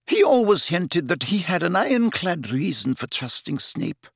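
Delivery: high, tearful-sounding professor, lightly voiced; muttered. A narrator's reading. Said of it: "muttered Professor McGonagall".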